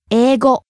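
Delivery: 英語 rising on the second syllable い; rising pitch accent. Shown as a demonstration. Teacher models the whole word, 英語 rising on い. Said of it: "Rising on the second syllable i".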